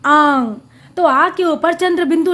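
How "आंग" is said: आंग held through nose and mouth; long nasalised आंग; nasal vowel. Shown as a demonstration. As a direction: say आंग open-mouthed, sound coming through the nose too. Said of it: "मुंह पूरा खुलता".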